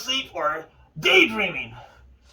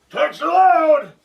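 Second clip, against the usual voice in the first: excited; 5 semitones higher, 6 dB louder, slower than usual. Real, not acted. Excited naming of the program.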